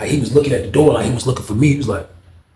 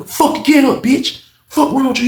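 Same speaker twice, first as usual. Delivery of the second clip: high, harsh cursing; angry yelling; 12 semitones higher than usual. Retold or imitated. Unc cursing the man on the floor, high angry yell. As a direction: bark at him to get up.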